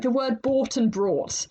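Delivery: slow, clear "bought" then "brought"; careful word contrast. Shown as a demonstration. Teacher showing listeners "bought" and "brought", slow and clear. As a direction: spell out "bought" and "brought" slowly so the r stands out. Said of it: "one letter difference".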